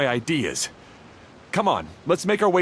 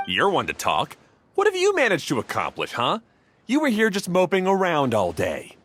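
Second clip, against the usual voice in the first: sharp retort. Acted. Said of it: "They started arguing the moment they saw each other".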